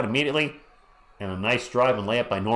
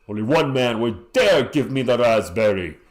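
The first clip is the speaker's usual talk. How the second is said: dramatic announcer voice; 5 dB louder, slower than usual. Pretend. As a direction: growl it like a wrestling promo. Dramatic wrestling promo voice.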